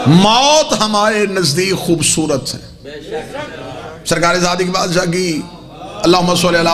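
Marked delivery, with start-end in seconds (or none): 0.1-2.9 sustained sermon call, slowing at the close; impassioned preaching. Real, not acted. Preacher telling congregation death is beautiful, impassioned preaching. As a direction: draw out the final declaration to the crowd.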